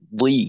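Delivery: দুই with a full, heavy emphatic ḍad; heavy thick zer. Shown as a demonstration. Teacher showing a student the thicker zer, heavy emphatic pronunciation. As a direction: say দুই thick and heavy, clearly apart from dal. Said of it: "আরেকটু মোটা করতে পারলে".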